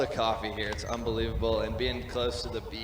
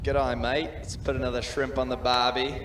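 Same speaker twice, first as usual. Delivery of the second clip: a light, louder mock Australian accent; 3 dB louder than usual. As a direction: ham up a cheery Australian accent. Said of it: "do your best Australian accent".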